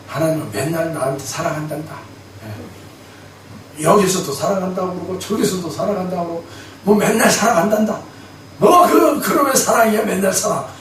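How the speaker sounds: mock grumbling to his wife. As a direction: pastor grumbles to his wife about God's love. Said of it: "투덜투덜거렸어요".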